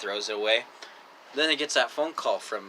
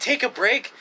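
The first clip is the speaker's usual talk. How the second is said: retold command; 11 semitones higher, 4 dB louder than usual. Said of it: "I said".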